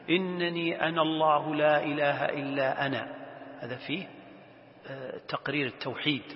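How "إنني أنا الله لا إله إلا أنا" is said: level, even-toned verse reading; Quran recitation. Acted. God's declaration to Moses read out, reciting. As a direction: recite on a steady tone.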